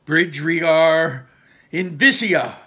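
slow, loud chanted incantation; spell incantation. Acted. Ian casting his bridge spell, loud and slow. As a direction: intone the spell slowly.

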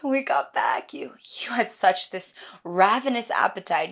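animated retelling that settles into hush; lively, loving memory with big emphasis; fond reminiscence. Acted. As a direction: marvel aloud at a loved one's appetite. Acts second monologue, reminiscing.

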